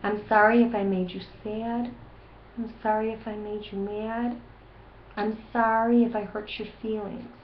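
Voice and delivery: hushed, tender model apology; soft apology. Shown as a demonstration. Parent showing kids how to say sorry, softly. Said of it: "Go ahead and say".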